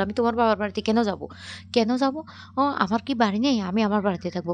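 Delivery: acted heated objection; indignant protest. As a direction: protest loudly, refusing to go. Mother-in-law protests in quarrel.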